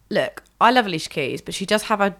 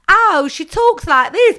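high, loud, slow mocking; mock talking voice; 12 semitones higher, 8 dB louder, slower than usual. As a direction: exaggerate the speaking voice. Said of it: "It's like".

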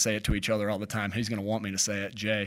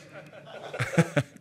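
breathy laugh; 4 semitones higher than usual. Real, not acted. Amused by interruption.

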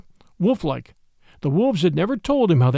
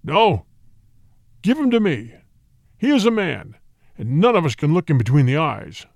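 tiger demanding. A narrator's reading. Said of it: "clamored Shere Khan".

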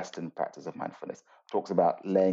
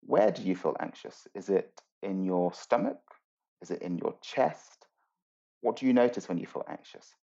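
gentle teacher guiding. Shown as a demonstration. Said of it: "something I might tell students to do is go".

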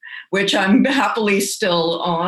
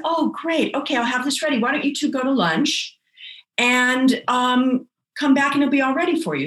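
lightly voiced obliging clerk, higher pitch; helpful registrar; 5 semitones higher, faster than usual. Registrar sending the couple to lunch, lightly voiced and obliging.

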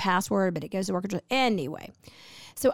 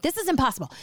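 higher-pitched mock exasperation; mildly hammed-up disbelief at being told no; losing it; 5 semitones higher, faster than usual. Customer told her order is missing, retold exasperation. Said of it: "start losing it".

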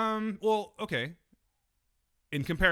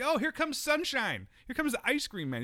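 acted happiness; 11 semitones higher than usual. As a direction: greet the ice cream truck with exaggerated joy. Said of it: "you get all happy".

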